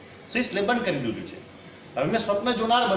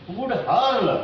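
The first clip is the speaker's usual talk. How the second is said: raised-pitch verse reading; poem recitation; 5 semitones higher, much slower than usual. Real, not acted. Teacher reads poem phrase before translating, lifted recitation.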